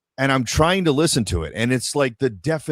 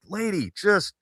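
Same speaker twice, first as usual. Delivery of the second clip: exasperated; 9 semitones higher, much slower than usual. Retold or imitated. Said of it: "the level of frustration where I'm like".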